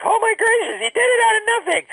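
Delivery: real delight, pitch leaping up; amazed. Real, not acted. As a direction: gush in wonder at what he made. Marvels at grandpa's creations.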